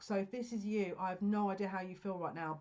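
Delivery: tight, strained throat. Real, not acted. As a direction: speak through a tight throat. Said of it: "I can barely talk".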